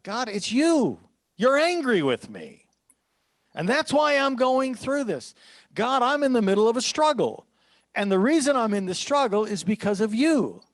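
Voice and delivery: pleading psalmist. Acted. Voicing the psalmist's complaint to God.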